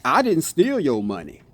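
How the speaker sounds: I said with weight, so someone else did it; stress on I. Shown as a demonstration. Explaining a sentence's meanings to viewers, stress on I. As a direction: hit the word I, rest falls away. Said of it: "Check it out".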